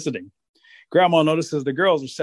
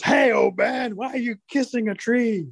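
higher-pitched, lightly voiced incredulous grandma; scolding grandma; 8 semitones higher, slower than usual. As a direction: call out in mock disbelief at an old husband. Grandma confronts her husband in story.

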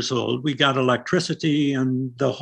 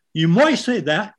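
"might" said as "moy" with a Norfolk lilt; lightly put-on Norwich accent, rising at the end; a hint of Norfolk speech; 6 semitones higher than usual. Shown as a demonstration. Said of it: "the Norwich accent".

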